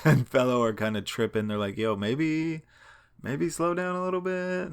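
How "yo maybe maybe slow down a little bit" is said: pitched way up, nervous little plea; nervous friends. Retold or imitated. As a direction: imitate friends squeaking for caution. Friends nervous about speeding.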